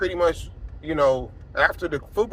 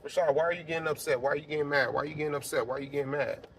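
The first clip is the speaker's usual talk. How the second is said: quieter, repetitive self-questioning; self-talk; 6 dB quieter, much faster than usual. Retold or imitated. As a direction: question yourself under your voice. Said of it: "I had to tell myself".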